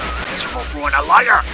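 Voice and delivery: squeaky, fast mocking imitation; mocking high voice. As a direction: parrot it back in a silly high voice. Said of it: "repeats the line".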